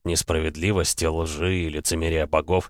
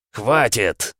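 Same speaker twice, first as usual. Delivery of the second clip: резкий окрик «Хватит!» с падением в конце; «Хватит!» — оборвать бой окриком; восклицание; 3 semitones higher than usual. Acted. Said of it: "воскликнул Эмма". (восклицание)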